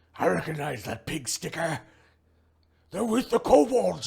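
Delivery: very loud barked delivery, rising pitch. Game master voicing an enemy just stabbed with a spear, barking it out. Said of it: "she barks out".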